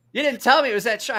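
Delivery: high-pitched mock protest; retold accusation. Retold injured friend accuses lender.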